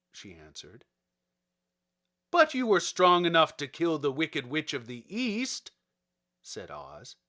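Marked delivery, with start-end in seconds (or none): 2.3-5.7 a touch of a loud, commanding wizard head; booming Oz. Acted. Oz challenges Dorothy, a hint of booming command. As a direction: speak down to the girl like a great head.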